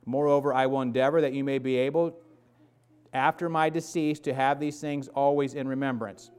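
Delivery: steady, measured Bible reading; scripture reading. Acted. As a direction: read the verses with weight. Reads scripture aloud.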